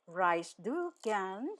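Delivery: "Reist du gern" stretched out slowly; measured, drawn-out model question; slow teaching repeat. Shown as a demonstration. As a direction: say each word slowly for learners. Teacher repeats phrase slowly for learners.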